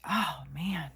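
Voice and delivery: real breathy whisper, almost voiceless; overcome, whispered. Real, not acted. Woman moved by a lonely girl's story, overcome whisper.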